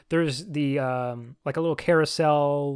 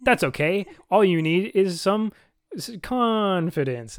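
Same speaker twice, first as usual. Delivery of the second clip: impression of a singer; 4 semitones higher, 4 dB louder than usual. Retold or imitated. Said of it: "but he's like".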